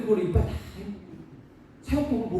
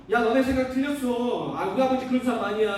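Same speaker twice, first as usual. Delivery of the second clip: confident; 5 semitones higher, 5 dB louder than usual. Acted. Son defending his father to doubting friends, confidently. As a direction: stand up for Dad with full confidence. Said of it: "당당하게".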